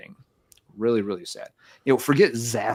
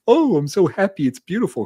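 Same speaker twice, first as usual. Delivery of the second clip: high, bright gushing, much louder, like tears of joy; mock happy crying; 8 semitones higher, 6 dB louder than usual. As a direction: gush loudly as if weeping from happiness.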